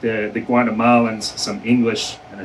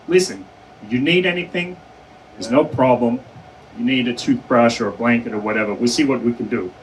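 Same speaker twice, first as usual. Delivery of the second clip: put-on Indian accent. Indian detainees offering the newcomer help, light Indian accent. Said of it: "in a familiar Indian accent".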